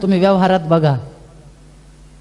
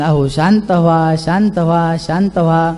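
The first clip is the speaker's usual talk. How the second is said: lower, gently repeated plea; pleading to calm; 3 semitones lower than usual. Acted. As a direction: coax him down again and again. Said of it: "फार समजून सांगायचा प्रयत्न". (हळुवार, विनवणीचा सूर)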